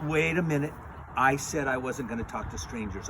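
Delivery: lightly voiced child, speaking up loudly; a hint of a girl remembering the rule; Little Red Riding Hood. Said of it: "Little Red Riding Hood says".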